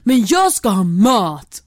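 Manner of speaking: mock drunk demand. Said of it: "kan bli väldigt arg".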